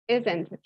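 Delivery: "isn't it?" said with the pitch sliding down; falling tag. Shown as a demonstration. Teacher repeats the tag for the class with falling tune. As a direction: drop the voice on "isn't it?". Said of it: "My voice goes down".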